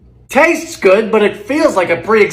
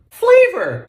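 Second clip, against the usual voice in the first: mock exclamation; 10 semitones higher, 4 dB louder than usual. Mocking the recipe.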